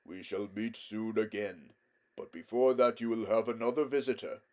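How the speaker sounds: lightly voiced, kindly lion; lighter voice. A narrator's reading. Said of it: "spoke in a lighter voice".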